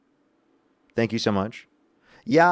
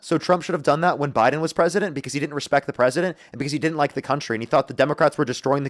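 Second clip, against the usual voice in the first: put-on voice. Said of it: "I'm done with the voice".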